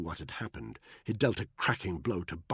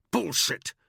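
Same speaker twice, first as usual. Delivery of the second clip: growled; 11 semitones higher, 6 dB louder than usual. A narrator's reading. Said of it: "Danny growled".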